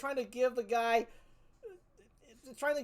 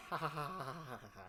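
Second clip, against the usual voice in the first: villain laugh; 7 semitones lower, 13 dB quieter, faster than usual. Retold or imitated. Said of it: "guess what's coming back".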